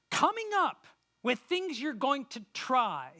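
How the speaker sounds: slow, with weight landing on "try"; stress on try. Shown as a demonstration. Pastor to members, stressing "try". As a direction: lean on "try" and draw the line out slowly. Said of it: "I wanna emphasize that word try".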